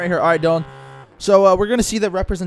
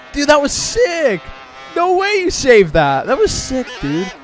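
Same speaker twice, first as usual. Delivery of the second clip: frat bro; 9 semitones higher, slower than usual. Real, not acted. Cheering friend's save.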